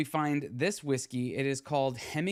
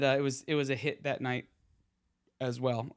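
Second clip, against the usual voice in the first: talking through hiccups; hiccuping. Real, not acted. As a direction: hiccups between words. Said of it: "I don't know why I'm hiccuping and burping now".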